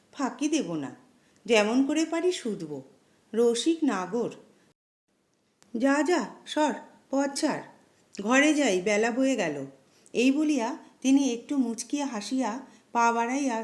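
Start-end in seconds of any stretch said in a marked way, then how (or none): 0.1-9.6 lightly mimicking a pleading voice, with scorn; a priest parroting a poor man's plea, mildly; mocking imitation. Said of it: "ব্যাকুল কণ্ঠের অনুকরণ করিয়া কহিলেন".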